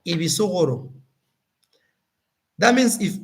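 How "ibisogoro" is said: "Ibisogoro" spoken carefully in his local language; "Ibisogoro" said as a native word. Shown as a demonstration. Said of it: "we say".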